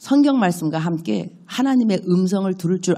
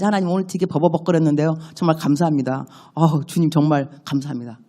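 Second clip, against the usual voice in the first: sincere thanks; 3 semitones lower than usual. Shown as a demonstration. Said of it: "내가 더 감사해야지".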